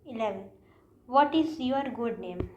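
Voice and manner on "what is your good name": what is your good name drawn out slowly; teacher presenting the wrong phrase slowly; slow wrong example. Shown as a demonstration. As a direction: read the mistake out slowly. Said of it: "ये चीज़ भी हम नहीं बोलना है".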